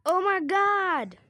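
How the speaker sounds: loud, high, stretched-out cry; hammed-up amazed shout; shocked exclamation. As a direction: draw it out in big astonishment. Reacting to what just happened.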